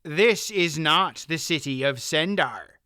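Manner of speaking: firm, level tone; flat. Acted. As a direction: say it flatly, no give. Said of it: "Faldor said flatly".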